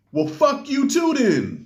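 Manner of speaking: high-pitched, drawn-out mock outburst; defiant comeback. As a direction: play a kid cursing back, slow and high. Son cursing back over game headset.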